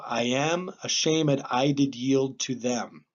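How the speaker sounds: slow verse reading, "ashamed" as a-SHAY-mid; sounded -ed. Shown as a demonstration. Teacher reads the example line, "ashamed" with -ed sounded. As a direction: read the line slowly, giving "ashamed" three syllables. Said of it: "we're going to pronounce that as a syllable".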